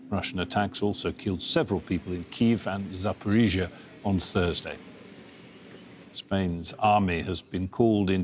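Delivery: measured newsreader delivery; news read. Real, not acted. Anchor reading overseas headlines to viewers, news read. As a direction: read the bulletin evenly, pausing between stories.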